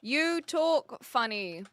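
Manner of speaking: each word drawn out while typing; slow, careful dictated words; slow dictation. Shown as a demonstration. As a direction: read it out slowly as you type. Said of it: "I think that we can do this".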